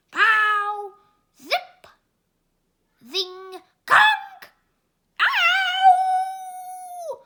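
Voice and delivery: cartoon fighter yelping in pain; comic fight yelps. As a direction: bang out the hits, then yelp. Comic fight sound effects.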